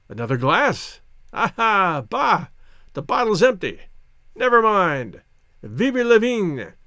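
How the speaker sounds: effusive, lively toasting voice; jovial old soldier. Acted. Old soldier praising his English friend over champagne, effusive.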